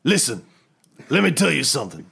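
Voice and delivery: swaggering Nick Fury bit; a lightly voiced cocky Fury, bragging to the team; playing Nick Fury. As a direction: boast it like a cocky boss. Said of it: "Nick Fury was like".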